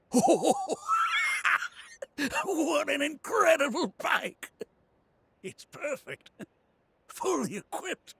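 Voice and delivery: high-pitched, gushing awe; swooning excitement. Acted. Bike fan admiring an incredible motorbike, swooning excitement. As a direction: swoon over it, building to a drawn-out cry.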